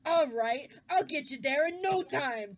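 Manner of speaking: loud Brooklyn character voice; Brooklyn accent. Acted. Carriage driver reassuring his passenger, Brooklyn accent. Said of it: "Don't know why he's got a Brooklyn accent".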